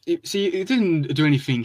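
understated nervous reassurance. Acted. Mikey excuses himself to his frightened brother, mildly nervous. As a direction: play it down with a touch of nerves. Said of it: "he chuckled, um, nervously".

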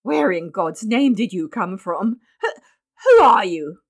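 stammering, building to a loud burst; frantic outburst. A narrator's reading. Father questioning his strange baby, frantic. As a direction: burst out as if losing his grip. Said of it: "burst out Mister Button frantically".

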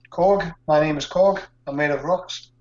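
put-on rough stab at a New Zealand accent; lightly put-on New Zealand accent; attempted New Zealand accent. Podcast guest playing the rock man, New Zealand accent. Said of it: "Was that your attempt at a New Zealand accent".

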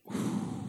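long breathy "whew"; heavy exhale. Retold or imitated. Son finding his dad cold, long stunned exhale. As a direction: blow the air out slowly.

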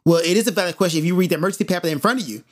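very fast mimicked retort; rapid-fire mock comeback; imitating indignant attendant. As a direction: rattle it off like a testy attendant. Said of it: "She sounded like that".

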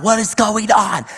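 high, drawn-out retold bewilderment; slow, high-pitched incredulous question; overwhelmed disbelief. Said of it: "I'm a wreck".

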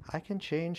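desperate plea. A narrator's reading. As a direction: grasp at the last chance. Witch begs to stay together.

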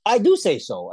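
I DO say so, do hit high and loud; stress on do. Real, not acted. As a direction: lean hard on "do" as a retort. Retort stressing do.

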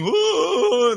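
high mock moan of the risen corpse; imitating Lazarus staggering out; mock groan. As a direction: groan like a stiff mummy. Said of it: "Você acha que ele saiu assim?".

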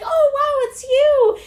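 high, loud gushing hello; imitated excited greeting. Former student runs into old teacher, gushing greeting.

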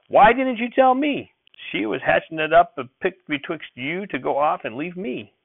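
high, loud, slow accusing cry; hurt accusation. A narrator's reading. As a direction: blame the boy, wounded. Grandfather accusing the boy.

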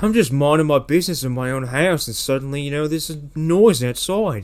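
lightly voiced Australian homeowner; Dave Haggerty. Homeowner telling of a noise outside, loose Australian accent. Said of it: "Australian Haggerty".

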